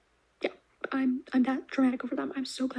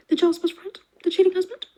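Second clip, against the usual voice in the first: louder, higher teasing questions; building mock-dramatic questions; dramatic suspect list; 6 semitones higher, 7 dB louder than usual. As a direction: pitch each suspect like a trailer.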